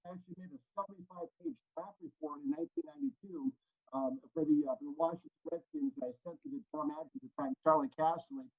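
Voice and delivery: audio cutting in and out; uneven volume. Real, not acted. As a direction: voice fading on a bad mic. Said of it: "your audio is cutting out".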